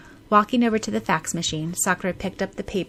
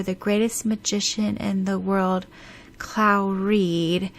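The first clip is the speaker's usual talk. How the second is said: formal reading; 3 semitones higher than usual. Acted. Reading dense document aloud.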